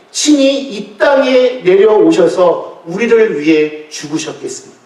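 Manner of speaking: rising preacher's fervor. Real, not acted. Preaching climax to congregation.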